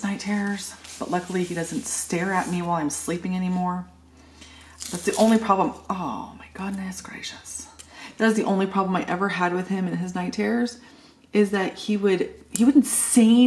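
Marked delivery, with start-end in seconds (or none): 5.9-7.7 slow, breathless whisper of disbelief; whispered exclamation. Real, not acted. Mom recalling her son's night staring, in a slow whisper. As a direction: whisper it, half to yourself.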